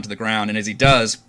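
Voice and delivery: measured scene-setting with pauses; game master narration. Acted. Game master tells players how Orvix falls, measured narration. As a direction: describe the action deliberately, beat by beat.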